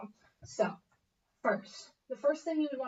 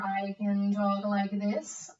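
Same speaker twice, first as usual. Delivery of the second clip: slow, each word separated; slow deliberate articulation demo; slow articulated demo; 3 semitones lower, much slower than usual. Shown as a demonstration. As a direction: spell it out slowly.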